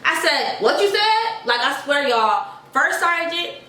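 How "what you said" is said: angry voice. Retold or imitated. Confronting a private who called her crazy, angry. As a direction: snap the question back, higher. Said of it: "I dead had my little angry voice".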